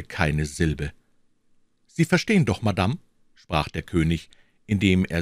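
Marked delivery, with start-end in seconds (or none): 1.9-3.0 a lightly voiced king, insistent; the king savouring her unease; pressing king. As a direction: lean on verstehen.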